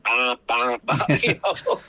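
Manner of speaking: playful mock alarm noise, half laughing; judgment radar alarm. Volunteer driver mimicking his judgment radar to the host, with a laughing mock alarm. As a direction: buzz it like an inner alarm going off. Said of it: "my judgment radar just started going".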